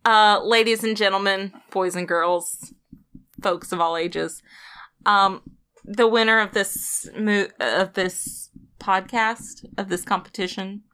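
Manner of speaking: grand showman announcement; ringmaster. Acted. Announcing the winner theatrically.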